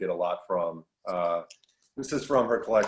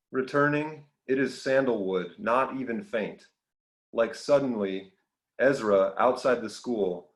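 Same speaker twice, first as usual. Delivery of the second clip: measured poetry reading, each phrase set apart; deliberate recital, settling at the close; poem reading; 2 semitones higher than usual. Acted. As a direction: read your own poem aloud, line by line. Reads own poem aloud.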